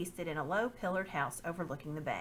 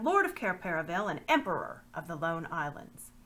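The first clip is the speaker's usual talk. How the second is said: put-on a proud young king, a touch louder, declaring his rank; young king proclaiming; 3 semitones higher, 5 dB louder than usual. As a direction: claim the throne boldly, like a rightful king. Caspian claims his crown to Byrne.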